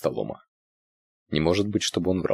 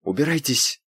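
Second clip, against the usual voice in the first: angry hiss; 8 semitones higher than usual. A narrator's reading. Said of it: "зло прошипела она".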